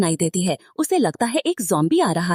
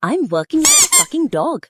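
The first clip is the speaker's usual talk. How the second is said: cursing under breath; 8 semitones higher, 3 dB louder, much slower than usual. A narrator's reading. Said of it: "अपने मन में गाली दे रहा है".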